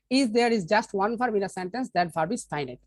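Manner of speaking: slow, careful dictation; slow reading. Shown as a demonstration. Teacher reading a grammar rule to students, slowly. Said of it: "teacher reads the rule aloud".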